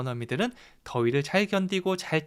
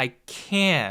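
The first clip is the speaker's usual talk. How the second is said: can't as the heavily punched, stressed word; 5 semitones lower than usual. English lesson on saying I can't handle the heat, strong stress on can't. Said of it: "여기다 강세를 주셔야 돼요".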